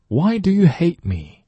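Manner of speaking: high, pleading why do you hate me; 委屈地质问; mock hurt plea. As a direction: play the wounded lover. Acted emotional question.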